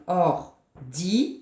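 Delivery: Ordinateur drawn out by syllable; slow syllables. Shown as a demonstration. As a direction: tap out Ordinateur beat by beat. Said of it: "de lui demander". (Ordinateur scandé lentement)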